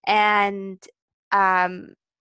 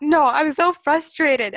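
loud, high, drawn-out frustrated protest; retold frustration; 6 semitones higher, 6 dB louder, slower than usual. Friend imitating her upset friend on the floor, loudly frustrated. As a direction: imitate an exasperated outburst, stretched out. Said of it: "like, shouted at that guy".

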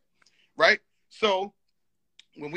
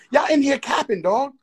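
loud, raised-pitch outburst; heated accusation; 7 semitones higher, 8 dB louder than usual. Real, not acted. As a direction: call them out at full voice. Accuses others of lying, argument.

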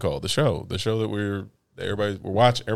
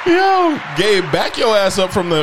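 shouting; 8 semitones higher, 4 dB louder than usual. Real, not acted. Yelling at Gabe on camera.

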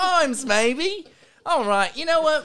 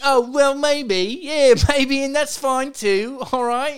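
put-on British accent. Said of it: "Is that why you've been changing your accent?".

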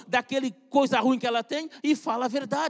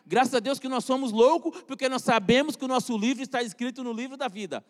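louder, rising preacher's refrain; preaching refrain; 4 dB louder than usual. Acted. Preacher to the congregation, a fervent repeated refrain. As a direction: build it like a pulpit cry.

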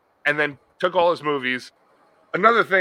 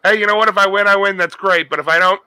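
higher, louder carefree attitude; easygoing contestant; 5 semitones higher, 5 dB louder, faster than usual. Pretend. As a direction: shrug it off cheerfully.

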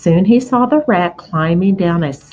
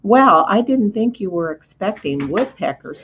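bitter. Acted. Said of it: "said Wilbur bitterly".

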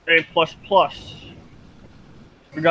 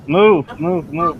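shouting orders over battle; 2 semitones higher, 4 dB louder, much slower than usual. Real, not acted. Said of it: "You're getting in the way".

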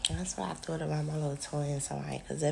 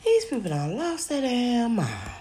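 louder, higher disbelieving outburst; exasperated exclamation; 7 semitones higher, 7 dB louder than usual. Retold or imitated. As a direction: blurt it out in disbelief. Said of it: "I said".

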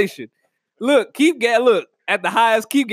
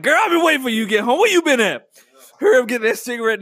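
put-on impatient boyfriend; 2 semitones higher, faster than usual. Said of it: "He be like".

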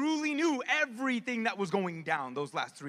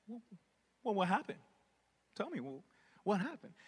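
gentle question; 3 semitones lower, 5 dB quieter than usual. Retold or imitated. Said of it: "he simply asked that question".

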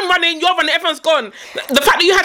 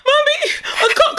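put-on child voice. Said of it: "she's like".

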